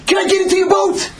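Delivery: very high desperate yell; screamed plea. Acted. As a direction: yell it as you're swept past. Storm-blown brother begs in passing.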